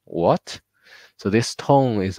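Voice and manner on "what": puzzled what with a rising tune; 疑问的语气; doubtful question. Shown as a demonstration. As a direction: sound unsure, questioning. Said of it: "think about you are making a question".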